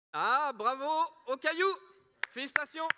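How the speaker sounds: high, loud congratulations; excited cheer. Real, not acted. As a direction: cheer the winner on stage. Host cheers the winner.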